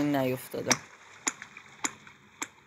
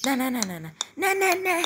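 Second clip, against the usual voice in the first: panicked no; 10 semitones higher than usual. Real, not acted. Character about to fall.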